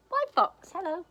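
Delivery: very high, loud hello; mouse's greeting. Acted. Mouse greets Fox on the path, high and loud.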